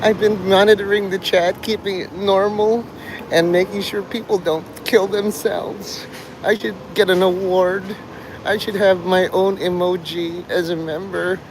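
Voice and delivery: high, self-pitying mockery; mock bragging whine. Mocking Mark boasting about moderating the chat, high whine. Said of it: "ranting and raving to all".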